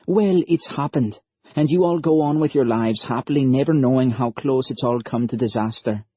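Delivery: put-on earnest young lad from Ireland; young Irish lad. Narrator voices Liam.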